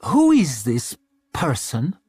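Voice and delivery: slow, haughty royal disdain; cold queen. Acted. Queen finding a stranger in her son's bed, slow disdain. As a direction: look down your nose and ask it slowly. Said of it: "asked the Queen".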